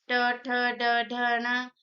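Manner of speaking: ट, ठ, ड, ढ, न as separate syllables; teacher sounding out the retroflex row ट to न; retroflex letters demonstrated. Shown as a demonstration. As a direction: recite ट, ठ, ड, ढ, न evenly, tongue curled back. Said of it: "इसको बोलने पे जीभ आपकी मुड़ जा रही है".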